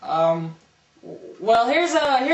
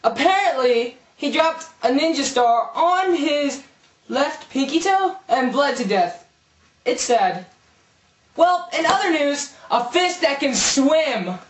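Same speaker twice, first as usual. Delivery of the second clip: news anchor. Acted. Mock news broadcast.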